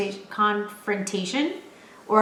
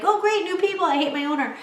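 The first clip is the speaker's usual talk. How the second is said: voicing the dog; 8 semitones higher than usual. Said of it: "my dog's like".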